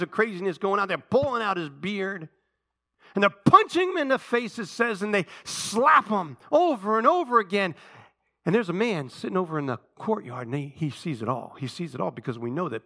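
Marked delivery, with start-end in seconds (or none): 3.1-7.7 forceful sermon storytelling; impassioned preaching. Real, not acted. Preacher telling how Jesus was beaten, impassioned. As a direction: punch out the violent verbs.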